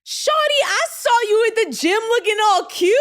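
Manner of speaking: high, sing-song pickup line from a stranger; flirty guy voice. Retold or imitated. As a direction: ham up a guy hitting on you at the gym. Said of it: "he's like".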